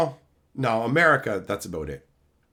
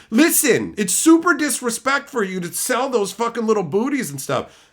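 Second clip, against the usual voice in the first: mock indignant gifter; 7 semitones higher, 4 dB louder than usual.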